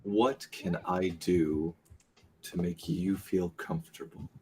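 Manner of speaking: measured, deliberate in-character question. Acted. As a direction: ask carefully, taking your time. Character carefully negotiates with Aiden.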